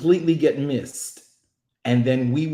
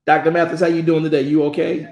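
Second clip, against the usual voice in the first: calling out; 5 semitones higher, 6 dB louder, faster than usual. Real, not acted. Calling to guest on call.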